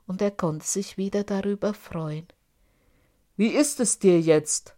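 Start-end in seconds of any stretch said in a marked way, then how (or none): 3.3-4.7 smug, smiling giant; smiling question. A narrator's reading. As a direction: ask it with a satisfied smile. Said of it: "fragte Michel lächelnd".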